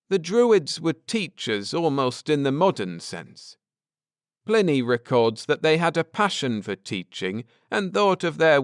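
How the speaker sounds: earnest scholar laying out history; Ned, earnest. Acted. Ned explaining the Druids to his wife, lightly voiced earnest man.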